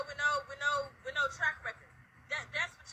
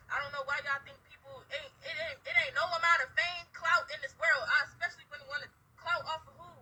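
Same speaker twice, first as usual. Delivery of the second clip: choked-up crying. Real, not acted. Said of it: "I'm sorry, y'all. Y'all have to excuse me".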